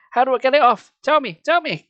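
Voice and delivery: high, loud desperate begging; high frantic plea. Acted. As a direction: beg with everything she has. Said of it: "Carly Beth begged".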